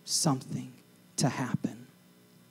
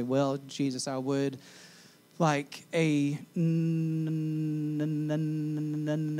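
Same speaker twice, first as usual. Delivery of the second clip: sarcastic; 4 dB quieter, slower than usual. Pretend. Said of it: "The sarcastic person in me".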